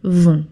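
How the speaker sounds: Vont with no T sound at the end; Vont, nasal ending, no final T; silent T. Shown as a demonstration. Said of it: "You don't pronounce the T".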